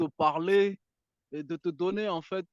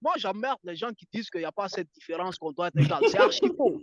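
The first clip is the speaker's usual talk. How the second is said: heated, higher-pitched insistence; worked up; 3 semitones higher than usual. Real, not acted. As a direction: argue it with real irritation. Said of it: "Pourquoi il a l'air vénère". (énervé, véhément)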